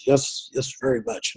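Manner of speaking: softly imitated Indian accent; thick Indian accent. Lab director answering a caller, imitated Indian accent. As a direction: lightly put on an Indian accent, quietly. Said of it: "And very thick accent".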